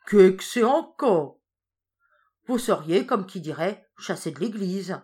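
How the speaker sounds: put-on old woman frightened by the word excommunicate; alarmed question. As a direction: ask in alarm.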